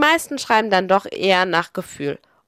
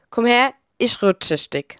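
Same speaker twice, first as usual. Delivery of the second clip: Pfälzisch dialect saying; Palatinate dialect. Shown as a demonstration. Narrator quoting a saying that sums up Palatinate life, in Pfälzisch dialect. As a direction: say it in broad Palatinate German. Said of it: "Auf Hochdeutsch".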